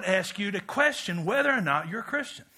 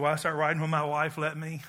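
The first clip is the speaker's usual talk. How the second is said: laughing; 4 semitones lower than usual. Retold or imitated. Joking about his wife.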